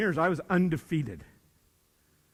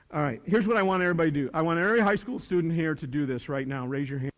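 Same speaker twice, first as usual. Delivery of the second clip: teacher to class; 2 semitones lower, faster than usual. Shown as a demonstration. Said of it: "I would say this".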